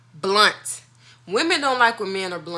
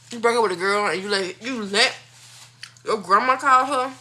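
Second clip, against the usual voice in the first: incredulous; 3 semitones higher, 5 dB louder than usual. Real, not acted. Incredulous at her own story.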